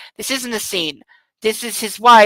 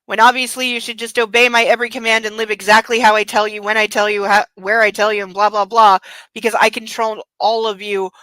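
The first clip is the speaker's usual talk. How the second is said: mock controlling husband. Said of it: "he's still stuck on the".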